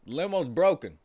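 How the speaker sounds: deadpan bad news; limo driver. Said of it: "said the limo driver".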